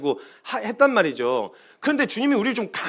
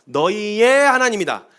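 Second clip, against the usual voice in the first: voice of God; much slower than usual. Acted. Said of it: "하나님이 수도 없이".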